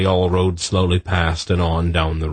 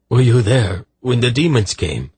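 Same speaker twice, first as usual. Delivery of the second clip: louder, anxious soldier's question; terrified; 5 semitones higher, 4 dB louder than usual. A narrator's reading. Soldier asking if they saw the demons, terrified. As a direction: press the question fearfully. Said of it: "he asked in a terrified voice".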